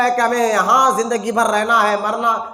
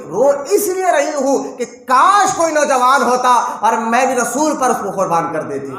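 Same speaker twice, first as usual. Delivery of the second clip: louder, impassioned cry of a grieving mother; anguished mother's longing; 4 dB louder than usual. Retold or imitated. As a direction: voice her fervent wish, swelling then easing off. Weeping mother's longing, voiced in story. (ماں کی تڑپ بھری فریاد)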